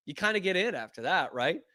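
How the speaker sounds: usual speaking voice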